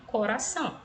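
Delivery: "coração" with a light single-tap R; teacher demonstrating the tapped R in "coração"; weak R. Shown as a demonstration. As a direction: keep the R of "coração" weak between the vowels. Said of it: "ele tem um som fraco".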